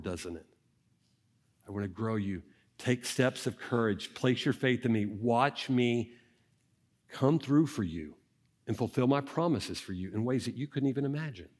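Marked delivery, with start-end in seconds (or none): 1.7-11.5 tender voice of the Lord. Acted. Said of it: "sounds a lot more like our Lord".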